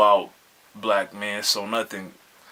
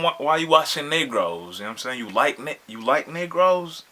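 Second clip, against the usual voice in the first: higher, mock Mexican mom accent; mock scolding Mexican accent, raised pitch; 5 semitones higher than usual. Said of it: "saying it with the little accent".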